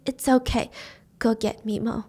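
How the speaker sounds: soft, faint dying voice; weak reassurance. Retold or imitated. Stabbed grandma sending for Mimo, weak reassurance. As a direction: say it softly, strength draining away.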